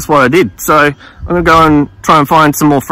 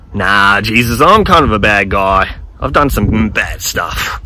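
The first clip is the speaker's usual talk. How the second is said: lower, slow, sheepish; ashamed reply; 7 semitones lower, slower than usual. Retold or imitated. Russell telling Jesus he is a bad guy, lower and sheepish. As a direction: mumble your excuse, downcast.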